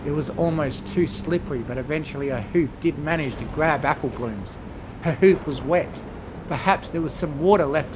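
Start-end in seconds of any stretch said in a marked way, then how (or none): none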